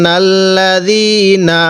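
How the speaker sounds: very slow, drawn-out recitation; tajweed recitation. Shown as a demonstration. Teacher showing students the reading, slow drawn recitation. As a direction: stretch the long vowel in recitation. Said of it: "তাহলে আমরা কিভাবে পড়ব?".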